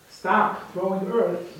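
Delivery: high, loud, slow frantic yell; donkey screaming. Acted. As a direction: scream it up from the bottom of the pit. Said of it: "screams of screaming".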